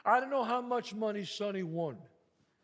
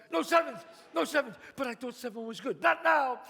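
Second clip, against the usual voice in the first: urgent; 3 semitones higher, 3 dB louder than usual. Acted. Urgent correction at dice table.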